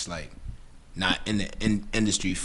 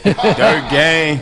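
laughing; 6 semitones higher, 8 dB louder than usual. Real, not acted. Laughing callout of crew name.

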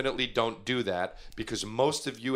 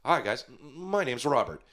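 almost human robot; 3 semitones higher than usual. Acted. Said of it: "first robot will sound almost human".

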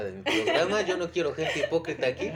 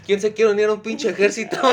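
loud rallying shout; 7 semitones higher, 10 dB louder than usual. Pretend. Rallying listeners to an army.

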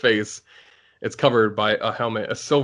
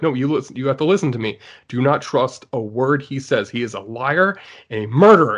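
urgent warning; 3 dB louder than usual. Retold or imitated. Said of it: "she's freaking out".

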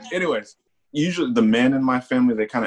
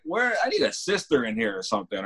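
mock dismay; 3 semitones higher, 4 dB quieter than usual. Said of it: "I was like".

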